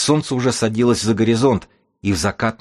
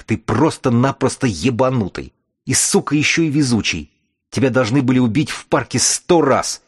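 angry rant; 4 semitones higher than usual. Acted. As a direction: spit it out in pained fury. Wounded chief rants at captor.

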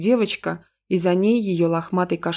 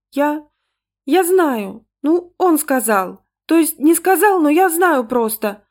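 put-on high, halting little-girl voice; stammer, then gush in a high child's voice; embarrassed but insistent child; flustered, fervent child's whisper; 8 semitones higher, 5 dB louder, slower than usual. A narrator's reading. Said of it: "смущённо и горячо зашептала Ангелинка".

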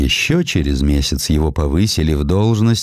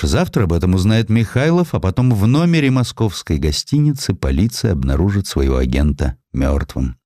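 ordinary talk, nothing marked

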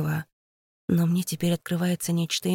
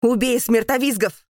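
higher and louder command; fierce battle order; 6 semitones higher, 5 dB louder than usual. A narrator's reading. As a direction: bark the kill order. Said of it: "кричит он".

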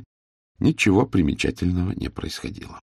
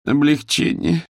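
slow, higher, long-suffering облегчение; 9 semitones higher, slower than usual. Acted. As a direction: sigh out облегчение like a martyr. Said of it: "страдальческим голосом повторила".

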